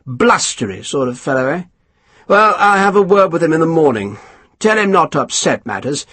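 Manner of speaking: lightly voiced self-satisfied officer; a hint of a smug English colonel; pompous colonel. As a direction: savour each word, pleased with yourself. Colonel dismissive then commanding.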